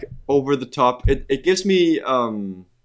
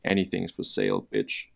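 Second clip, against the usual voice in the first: mock Russian accent; 6 semitones lower, 7 dB quieter than usual. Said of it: "That's my Russian".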